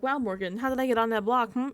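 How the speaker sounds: mildly needling fake wonder; pointed, passive-aggressive questioning, not yelling; passive-aggressive quote. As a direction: imitate a housemate fishing for an admission. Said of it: "it's a very passive-aggressive".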